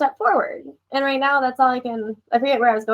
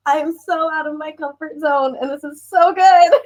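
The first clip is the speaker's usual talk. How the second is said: teary excitement; 5 semitones higher than usual. Real, not acted. Overwhelmed guest recalling joy.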